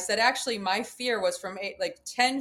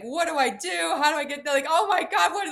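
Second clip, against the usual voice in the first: retold panic; 6 semitones higher, 4 dB louder than usual. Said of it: "swearing at my guide".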